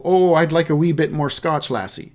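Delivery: a hint of a Scottish brogue, lightly played; mild Scottish lilt for a pub order; gently put-on Scottish accent. Shown as a demonstration. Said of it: "someone from Scotland, talking like that".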